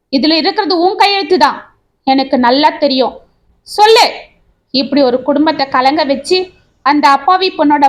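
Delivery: demanding the truth, partly hammed-up; shouting. Husband confronting his wife over the letter, shouting. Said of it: "என்று கத்தினான் கோபி".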